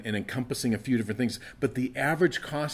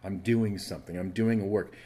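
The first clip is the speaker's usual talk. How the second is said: lower, softer, measured answer; God's calm reply; 5 semitones lower, 4 dB quieter than usual. Acted. God tells the crying child to wait, calm reply. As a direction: settle them down quietly, pitched low. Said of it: "but God would say".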